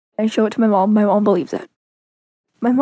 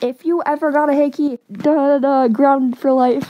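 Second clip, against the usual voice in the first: mild mock yell, slightly higher; imitated yelling dad; 3 semitones higher than usual. Dad warns daughter about hickeys, in a mild mock yell. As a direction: imitate a dad laying down the law, half-hearted yell. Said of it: "He yelled at me".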